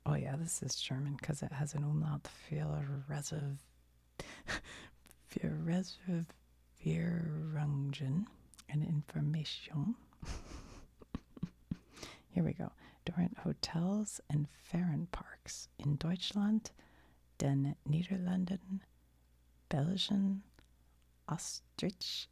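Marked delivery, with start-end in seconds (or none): 2.2-9.9 slow, careful German pronunciation; attempted German accent. Real, not acted. Host reading German off a matchbook, in a careful German accent. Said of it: "I bet that was a perfect accent". 13.1-22.3 careful amateur German accent, place by place; attempted German accent. Real, not acted. Host reading a German hotel matchbook aloud, in an attempted German accent. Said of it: "I bet that was a perfect accent".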